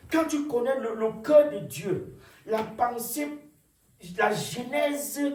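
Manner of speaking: prédication. Real, not acted. Preaches with raised voice.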